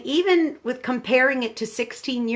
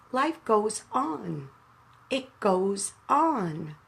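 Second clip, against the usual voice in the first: slow, soft and deliberate, letting each word sink in; tender pause-heavy delivery; slow soft reflection; 4 dB quieter, much slower than usual. Real, not acted. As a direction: say it gently like a quiet truth. Grieving daughter's key thought.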